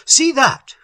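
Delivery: high, loud exclamation; crying out. A narrator's reading. Little watching the turtle vanish, crying out. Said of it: "cried Little".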